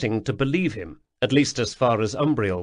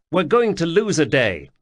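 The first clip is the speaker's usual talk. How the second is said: put-on young man voice; 6 semitones higher, 4 dB louder than usual. Atropos objects, higher voice.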